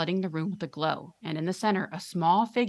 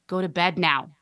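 firm raised command; shouting father; 5 dB louder than usual. Acted. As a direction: bark the order at her. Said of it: "the father shouts".

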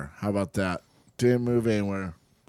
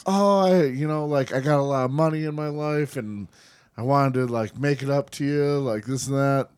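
fake friendly; 2 semitones higher than usual. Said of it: "being like".

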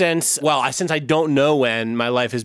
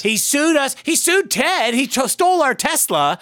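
put-on old man rant; 10 semitones higher than usual. Rants in character about Randy.

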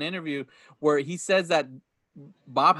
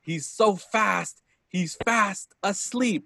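Smee; 4 semitones higher, slower than usual. Retold or imitated. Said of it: "Smee is rallying up".

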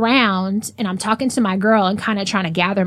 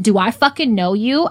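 mildly raised, indignant demand; retelling a loud challenge, slightly raised voice; retold loud confrontation; 2 semitones higher than usual. Woman retelling confronting a stranger at a bar, raised voice. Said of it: "I'm saying it loud enough".

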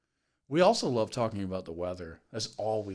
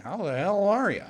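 higher, louder mock-hearty hello dripping with sarcasm; sarcastic greeting; 10 semitones higher, 6 dB louder than usual. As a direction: overdo the cheer so it sounds fake. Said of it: "I do that one sarcastically".

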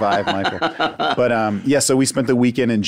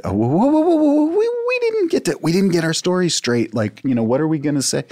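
panicked protest; 8 semitones higher than usual. Retold or imitated. Panicked protest when being separated.

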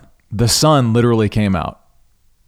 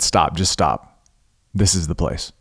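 firm self-command; 5 semitones lower, 4 dB quieter than usual. Real, not acted. Telling himself to stop searching.

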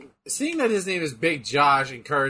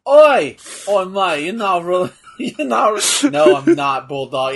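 fake British accent; 7 dB louder than usual. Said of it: "I'm acting fake British".

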